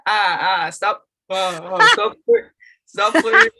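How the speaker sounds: loud, laughing playful tease; teasing friend voice. Acted. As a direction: tease him while racing. Voicing friend teasing Leon.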